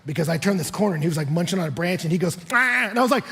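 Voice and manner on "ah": imitated startled cry. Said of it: "I scare a deer".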